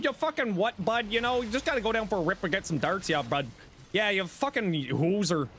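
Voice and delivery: a light mock Northern Ontario Canadian accent. Streamer imitating a Northern Ontario Canadian meme, light mock accent. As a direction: lightly ham up the Northern Ontario bud talk. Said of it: "the Canadian from Northern Ontario going".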